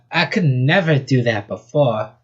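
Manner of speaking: lightly put-on southern accent; rabbit's southern accent; thick southern accent. Rabbit marvels at her new reach, southern accent. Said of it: "Her voice was a thick southern accent".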